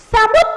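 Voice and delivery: "समुद" stopped abruptly on the final d; slight jolt. Shown as a demonstration. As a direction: halt "समुद" with the tongue held on the d. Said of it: "थोड़ा सा झटके से".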